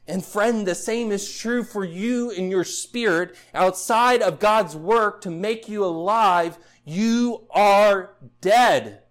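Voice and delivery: rising preacher's fervour, slowing hard on the last words; full-force preaching. Acted. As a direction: drive the point home from the pulpit.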